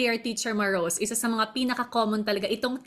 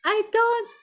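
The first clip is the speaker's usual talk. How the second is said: put-on high shrieking child's yell, much louder; mock tantrum yell; 11 semitones higher, 7 dB louder, much slower than usual. Host imitating a child escalating in a tantrum, shrieking high and loud. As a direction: yell it like a kid mid-tantrum. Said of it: "pataas ng pataas yung energy".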